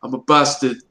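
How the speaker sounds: put-on northern English catchphrase; imitated northern English accent; Jon Snow accent. Shown as a demonstration. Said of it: "And you just go".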